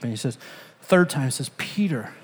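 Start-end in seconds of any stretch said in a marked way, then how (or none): 1.6-2.1 whispered name. Retold or imitated. Jesus asks Peter a third time.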